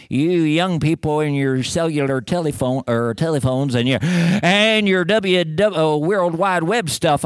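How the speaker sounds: put-on mild cranky old man grumbling at the young; lightly voiced old man scolding kids; grumpy old guy. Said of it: "try not to sound like the old guy".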